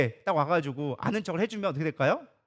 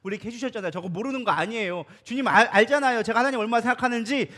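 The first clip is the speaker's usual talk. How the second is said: pleading Moses. Acted. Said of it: "간청을 해주는 거예요".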